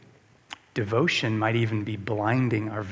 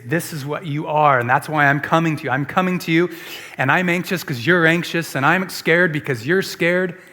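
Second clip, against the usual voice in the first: mock anxious Jesus; 3 semitones higher, 6 dB louder than usual. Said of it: "we think Jesus is".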